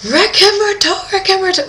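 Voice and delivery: high, loud frantic call; reenacted screaming. Diver calling companions to see the shark, screaming. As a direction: scream it out to get their attention. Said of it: "they can't hear me screaming".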